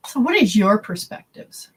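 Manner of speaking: whispered question, no voice. Shown as a demonstration. Whispered question, then said plainly.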